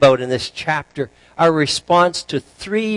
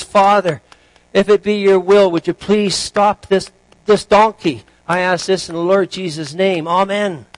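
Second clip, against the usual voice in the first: raised, pleading prayer; acted, higher-pitched desperate appeal; 4 semitones higher, 4 dB louder than usual. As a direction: plead urgently to heaven. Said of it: "out of desperation, the, the new owner".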